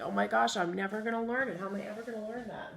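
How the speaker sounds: lightly voiced fretful kid; mock worried kid. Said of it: "you're gonna think".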